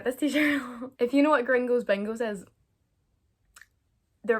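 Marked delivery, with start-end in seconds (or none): 0.0-2.4 loud announcement. Shown as a demonstration. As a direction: present it with a flourish. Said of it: "repeated intro".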